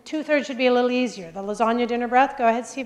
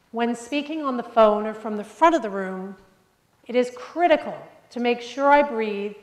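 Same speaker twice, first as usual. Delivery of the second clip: deliberate pauses. Shown as a demonstration. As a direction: pause and breathe between phrases. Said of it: "I'm breathing like a maniac".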